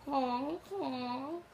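goose honk; silly clown. Shown as a demonstration. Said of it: "Can you make a sound like a goose?".

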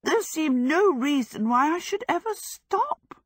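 high-pitched breathless exclamation; high, relieved and out of breath; breathless cry. A narrator's reading. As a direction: blurt it out high, winded from the rush. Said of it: "Sophie cried breathlessly".

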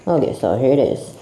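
muffled behind a respirator mask; talking through a face mask. Real, not acted. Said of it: "I put my respirator on".

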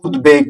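উদ্বেগ said "ud-beg", b fully sounded; উদ্বেগ split clearly as ud-beg; unchanged b. Shown as a demonstration. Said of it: "অবিকৃত থাকবে".

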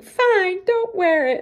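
high, loud furious snap; angry outburst. Retold or imitated. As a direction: yell it in frustration. Angry mom at crying son.

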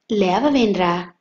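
slow, irked nudge; a touch of annoyance, drawn out; irritated. Acted. Suryam prodding sleepy Madhu, slow and mildly irritated. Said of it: "అన్నాడు సూర్యం విసుగ్గా".

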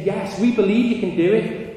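very high, loud imitated cheer; acted shout at peak excitement; crowd shouting back. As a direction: roar back as the convinced crowd. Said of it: "they're all shouting".

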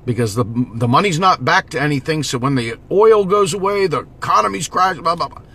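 dismissive mimicry of an objector; imitating a critic. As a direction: parrot the naysayer, pitch climbing as it goes. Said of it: "I've got someone telling me".

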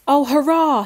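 high, loud cheer of victory; triumphant cry. A narrator's reading. Lionel cheers after shutting the dragon in the book, triumphant cry. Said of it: "he cried".

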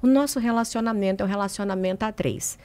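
a soft, grave explanation; lightly voiced husband laying down the news; serious husband. Wife retelling her husband's grave announcement, soft and serious. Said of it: "sério, estava sério".

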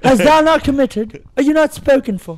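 mock Shakespearean suitor. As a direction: ask her hand like a bard, cracking up. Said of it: "That's Shakespearean".

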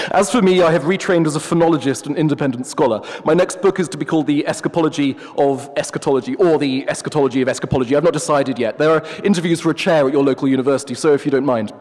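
a hint of a haughty professor; pompous wolf. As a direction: play the wolf as a self-important academic. The wolf speaks, pompous scholar.

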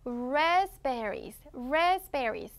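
"raspberries" slowly, lips rounded on the R; rounded English R. Shown as a demonstration. Teacher modelling for repeats, slow "raspberries" with rounded-lip R. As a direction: draw out "raspberries" with a curled-tongue R. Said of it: "입술을 더 동그랗게 하면".

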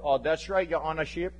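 mock Hawaiian local being formal; local attempting perfect English. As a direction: imitate a local straining for proper courtroom English. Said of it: "local folk who are trying to talk, you know, perfect English in court".

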